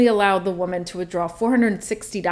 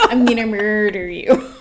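laughing mock threat; 5 dB louder than usual.

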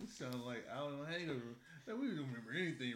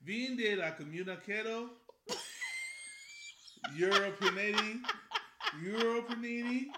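attempted French accent; 4 semitones higher, 4 dB louder than usual. Introducing wine in best French voice, badly faked French accent. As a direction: sound out mock French, getting louder and giggly. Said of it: "in my best".

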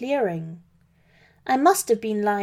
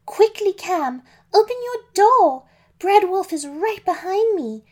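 high, loud panicked plea to her brother; urgent shout; 10 semitones higher, 5 dB louder than usual. Acted. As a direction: shout for the door to open, frantic. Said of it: "Pam shouted".

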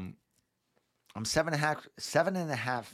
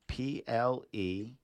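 slow spelled-out letters; 2 semitones lower, 4 dB quieter, much slower than usual. Shown as a demonstration. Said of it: "repeating the spelling".

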